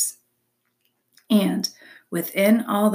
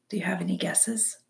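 whispered aside; 6 dB quieter, faster than usual. Real, not acted. Reader's aside to the listener.

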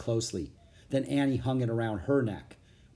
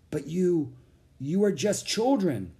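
weary knight; 6 semitones higher than usual. A narrator's reading. Weary knight doubts the children.

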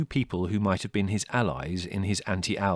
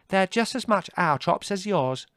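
indignant retort; 13 semitones higher, 8 dB louder than usual. A narrator's reading. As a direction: insist crossly on fair shares. Margot quarrels over the chops.

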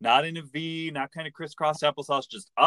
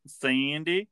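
light Southern drawl on Sandy, rising at the end; Southern accent; 3 semitones higher than usual. Acted. Co-host reminding her of the character Sandy, Southern accent on "Sandy". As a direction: say "Sandy" questioningly with a Southern twang. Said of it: "That's my Southern accent".

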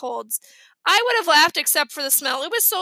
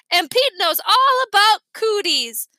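laughing; 7 semitones higher, 7 dB louder than usual. Acted. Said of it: "Fudge laughed".

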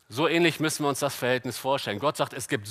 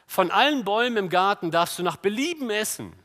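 raised, projected Bible-reading voice; scripture reading; 8 semitones higher, 7 dB louder than usual. Shown as a demonstration. Preacher reads Genesis verse to congregation, raised scripture-reading voice. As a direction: read the verse out high, loud and flowing.

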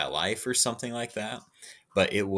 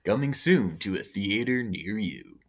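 movie trailer voice. Acted. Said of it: "the movie trailer voiceovers".

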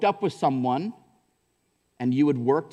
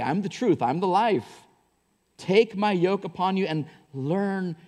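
building preaching; 5 semitones higher than usual. Acted. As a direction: build the appeal line by line. Preaching Jesus's words with force.

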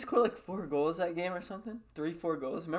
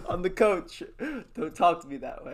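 imitating Coach Dan. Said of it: "Coach Dan was like".

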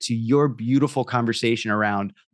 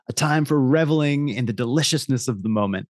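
ad voiceover. Acted. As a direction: linger over every word. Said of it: "I'll read that again".

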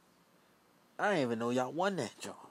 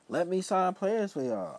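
higher, slow eager offer; mock pitch to the league; 9 semitones higher, 4 dB louder, slower than usual. Asking the NBA for a job, in a slow, higher mock offer.

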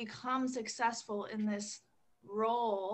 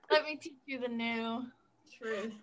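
mock business guru; 2 semitones higher, 4 dB louder than usual. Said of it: "It's like".

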